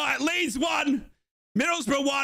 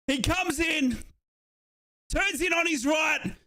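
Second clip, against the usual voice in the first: excited commentary; 2 semitones higher than usual. Acted. Goal replay commentary.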